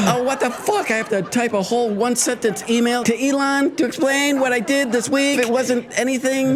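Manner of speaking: gasp, then grumble as an outraged worker; mock indignant complaint. Worker complaining about an email to Elon, mock outrage.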